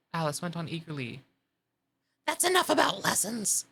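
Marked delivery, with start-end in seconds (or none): 2.3-3.7 high and firm, cutting it short; decided. Acted. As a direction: shut the topic down. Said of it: "in a very decided tone".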